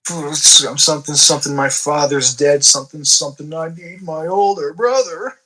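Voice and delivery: hammed-up welling up, rising towards the end; half-hearted weepy plea, dragging the words; mock tearful. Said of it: "he says with a tear welling up".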